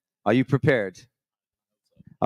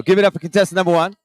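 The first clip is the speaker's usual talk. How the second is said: hype announcer; 6 semitones higher, 7 dB louder, much faster than usual. Acted. Host hypes up contestant.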